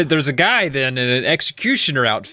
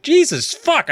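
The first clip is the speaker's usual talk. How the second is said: British swear; 13 semitones higher, slower than usual. Retold or imitated. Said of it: "I think he even says that in the book".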